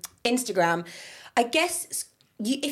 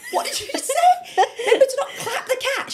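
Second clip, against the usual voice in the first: very high, laughing incredulous squeal; laughing disbelief; 3 dB louder than usual. Retold or imitated. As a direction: shriek it out through laughter, baffled.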